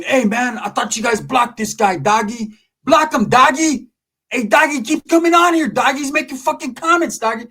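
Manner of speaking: a panicked man shrieking at his helper to block someone; Big Calvin screaming. Retold or imitated. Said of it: "he was screaming and yelling".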